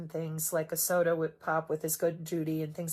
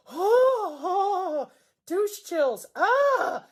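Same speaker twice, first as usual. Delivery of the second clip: much higher, louder squealing cringe; a put-on, high-pitched shudder of disgust; mock disgusted squeal; 11 semitones higher, 5 dB louder, much slower than usual. Mock squeal at creepy discovery.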